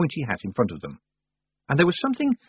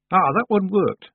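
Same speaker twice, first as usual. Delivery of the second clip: high, loud, slow village woman; 10 semitones higher, 7 dB louder, slower than usual. A narrator's reading. Woman reporting an answered prayer to Tiffany, high and pleased.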